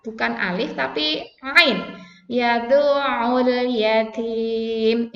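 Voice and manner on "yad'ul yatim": "Yad'ul" with a throat catch on the ain, slow; ain stop in yad'ul. Shown as a demonstration. Teacher models the ain, slowly. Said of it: "ini ain, tidak yadu'ul".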